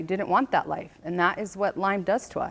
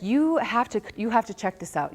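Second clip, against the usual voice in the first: excited mom; 5 semitones higher than usual. Retold or imitated. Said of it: "she's, like, all excited".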